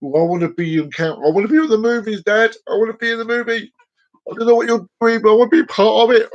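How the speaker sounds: high, fast cat voice; voicing the cat. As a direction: speak for the cat, excited and quick.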